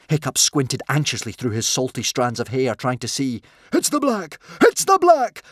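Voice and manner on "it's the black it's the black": shrieking very high and loud with crazed joy; mad glee. Acted. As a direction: cackle out the verdict like a lunatic. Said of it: "shouted with mad glee".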